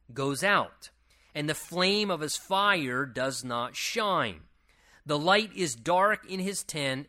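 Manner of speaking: slow, weighty Bible reading; measured declaimed scripture. Acted. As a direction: read the verse out slowly, phrase by phrase. Reads scripture aloud to the congregation.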